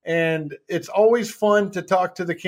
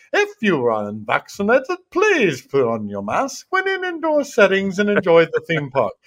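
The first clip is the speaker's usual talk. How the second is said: lightly imitated British park announcer, polite and even; a hint of a British PA voice reading the mask rule; mild mock British announcer voice; British lady announcement. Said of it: "you'll hear a British lady".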